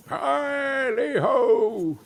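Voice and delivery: high, slow sung-out holler; merry cry. A narrator's reading. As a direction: sing out a festive whoop. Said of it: "cried old Fezziwig".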